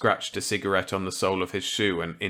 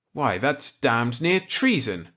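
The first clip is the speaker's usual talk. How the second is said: higher, louder character voice; eager reply to an old colleague; Walker's voice; 5 semitones higher, 4 dB louder, slower than usual. Acted. Walker accepting Millet's gambit eagerly.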